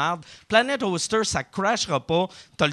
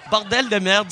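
a louder hammed-up «Bordel de merde» in a French accent; 2 semitones higher, 4 dB louder than usual. Host showing off his French accent, mock French. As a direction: give «Bordel de merde» a mock Paris twang. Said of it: "ça, c'est mon accent français".

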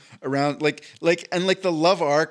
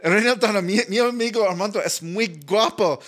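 louder, eager broken Spanish pitch; switching languages midsentence; 6 semitones higher, 4 dB louder than usual. Pretend. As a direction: call it out like a proud wingman. Second wingman pitch, louder.

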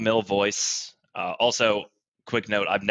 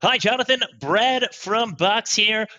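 a lightly hammed-up cheesy presenter; put-on podcast host voice; 6 semitones higher than usual. Brad greets Jonathan on the podcast in a put-on host voice. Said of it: "this is not my real voice".

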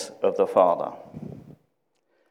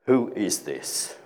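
"Who is this" said slowly, with a falling end; slow solemn emphasis; 5 dB quieter, slower than usual. Shown as a demonstration. Preacher echoing the disciples' words from the storm, slow falling question. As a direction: draw out "Who is this" gravely, tune falling. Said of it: "we emphasize the terminology".

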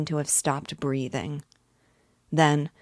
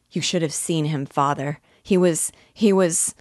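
words breaking out in a rush; excited boy; 2 semitones higher, 4 dB louder than usual. Acted. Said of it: "The words broke from me".

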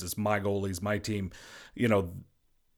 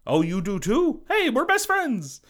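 imagined goalie bonding; 3 semitones higher, 4 dB louder than usual. Retold or imitated. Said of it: "You know, it's like".

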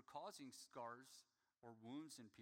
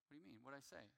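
much softer, lower, bewildered; a low, hushed clueless husband; 4 semitones lower, 8 dB quieter, much faster than usual. Retold or imitated. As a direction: play dumb under your breath. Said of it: "I'm like".

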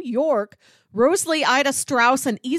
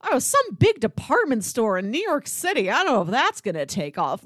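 mock in-joke; 3 semitones higher than usual. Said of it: "historical irony with".

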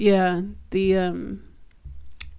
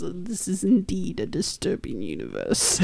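alien voice; 2 semitones lower, 9 dB quieter, slower than usual. Retold or imitated. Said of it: "with the alien voice".

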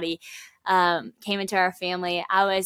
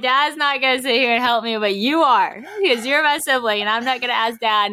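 higher-pitched, firm big-sister lecture; retold firm scolding; 4 semitones higher, 4 dB louder than usual. Big sister telling her new brother he must help, firm scold. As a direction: lay down the law to a younger brother, replaying it.

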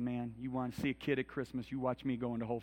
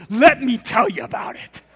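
much higher and much louder, slow and eager; eager cashier; 11 semitones higher, 19 dB louder, slower than usual. Retold or imitated. Cashier eager to explain her hair colors, high and loud. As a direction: launch in like you've waited all day to be asked. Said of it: "And she goes".

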